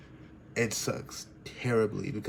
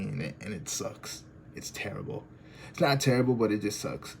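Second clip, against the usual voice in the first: real hurt, sinking almost to a whisper; close to crying. Real, not acted. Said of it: "you can hear probably in my voice that I wanna cry".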